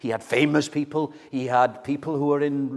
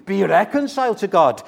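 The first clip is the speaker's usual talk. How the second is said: raised, insistent preacher's plea; pleading; 7 semitones higher, 6 dB louder than usual. Acted. Christ's ambassador appealing to be reconciled to God, pleading. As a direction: plead loudly and higher, urging them. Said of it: "pleading with you".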